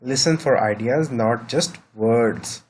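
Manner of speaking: very slow, each word drawn out; teacher stressing a rule, very slowly; slow emphatic maxim. Shown as a demonstration. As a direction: spell out the principle slowly. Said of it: "अगला आ गया".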